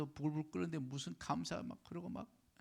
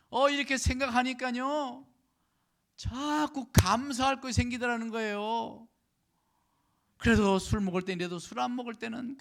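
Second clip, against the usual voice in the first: raised, higher pulpit voice; preaching; 10 semitones higher, 10 dB louder than usual. Real, not acted. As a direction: press the point on the congregation with loud emphasis. Preaches at full force. (목소리를 높여 강조하는 설교)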